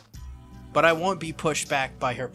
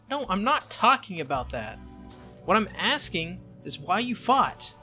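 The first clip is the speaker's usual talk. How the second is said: higher, insistent correction; acted argumentative protest; exasperated; 4 semitones higher than usual. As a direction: press the point in frustration. Acted argument, pressing his point.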